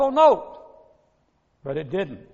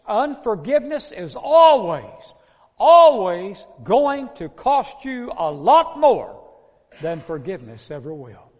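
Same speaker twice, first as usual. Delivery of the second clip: emphatic warning; 6 dB louder than usual. Real, not acted. Preacher stresses the warning.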